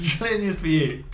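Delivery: laughing through the words; giggling while talking. Real, not acted. Joking about trillion-year sentence.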